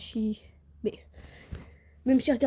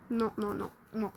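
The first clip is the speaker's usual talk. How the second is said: fading disappointed no; 3 semitones lower, 8 dB quieter than usual. Real, not acted. Failing again, giving up.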